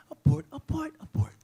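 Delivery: mock sweet, high and light sing-song; lightly and kindly. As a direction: toss the word off as if harmless. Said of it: "They say it so lightly and kind".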